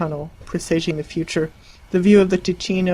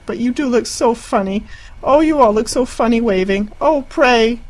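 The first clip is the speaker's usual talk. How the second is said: high, giggly helpless laughter; laughing helplessly; 6 semitones higher, 5 dB louder than usual. Acted. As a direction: laugh through the words. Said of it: "And laughing helplessly".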